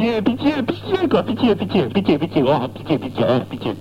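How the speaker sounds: high wailing pitié fading back down; hammed-up begging. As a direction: whine pitié over and over, then give up. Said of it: "tu dis pitié vingt fois". (pitié supplié en exagérant, qui s'éteint)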